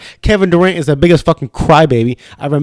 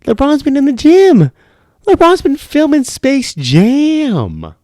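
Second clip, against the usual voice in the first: hyped up; 11 semitones higher, slower than usual. Real, not acted. Hyped-up boast about LeBron.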